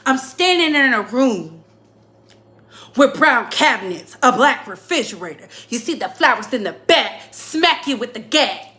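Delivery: punchy rhythmic mock rap, falling phrase ends; mock battle rapper. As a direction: parody a battle rapper's choppy delivery. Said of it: "They be like this".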